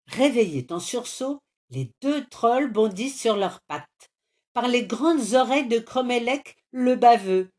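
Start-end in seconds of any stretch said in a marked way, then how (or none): 4.5-7.5 loud, higher troll roar; growling troll. A narrator's reading. Woken troll rumbling at intruders, loud. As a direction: boom it out like a startled monster. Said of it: "gronde le banshee".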